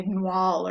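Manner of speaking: "noir" as one syllable, O and E blended; vowels run together. Shown as a demonstration. Teacher showing the word without tréma, vowels merged in "noir". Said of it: "So otherwise, if that wasn't here".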